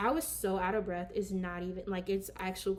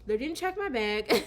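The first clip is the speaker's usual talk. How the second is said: louder, laughing as she repeats it; 3 semitones higher, 5 dB louder than usual. Real, not acted. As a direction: say it again, cracking up. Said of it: "I'm gonna say".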